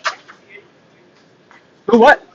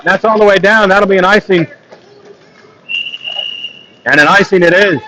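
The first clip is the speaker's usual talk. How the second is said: steady running hockey commentary; live play-by-play. Acted. Commentator calling the game for stream viewers, live play-by-play. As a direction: call the puck movement as it happens.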